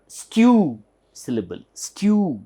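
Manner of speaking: STEW said as "styoo", with a y glide; slow, deliberate "styoo" for "stew"; stressed syllable. Shown as a demonstration. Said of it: "There is a stress here".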